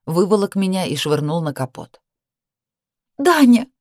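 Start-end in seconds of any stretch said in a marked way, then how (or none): 3.2-3.7 high, loud sudden cry of his name. A narrator's reading. Sister thrown on the car hood, crying out. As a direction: shriek his name as you fall. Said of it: "вскрикнула".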